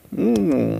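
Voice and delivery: long, appreciative "mm"; savouring hum. Pretend. Imagining a tasty Indian curry, savouring hum. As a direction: hum as if tasting something delicious.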